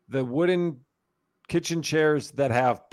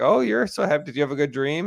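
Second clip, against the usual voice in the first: put-on sing-song baby talk. Mom asking her toddler about her dream, gentle coo. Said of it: "And I was like".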